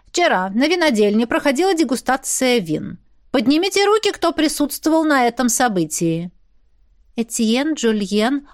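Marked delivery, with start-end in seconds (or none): 0.1-6.3 formal announcement, lifted and declarative; official tone. A narrator's reading. Grichstone questions the guests like an accuser, official tone. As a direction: proclaim it like an accuser, higher pitched. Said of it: "официальным тоном".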